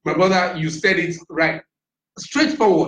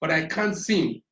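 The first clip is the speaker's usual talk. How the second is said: trailing off; 3 dB quieter, slower than usual. Real, not acted. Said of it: "I lost my train of thought".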